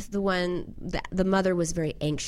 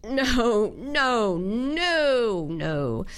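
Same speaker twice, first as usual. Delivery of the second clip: raised, pleading no no no; urgent protest; 4 semitones higher, much slower than usual. Retold or imitated. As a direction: stop her before she hands it over. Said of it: "I wanted to be like".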